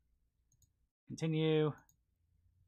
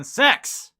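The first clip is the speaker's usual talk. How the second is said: sudden loud drawn-out shout; 12 semitones higher, 12 dB louder than usual. Pretend. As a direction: belt the word out slowly. Reading game titles aloud, jokingly.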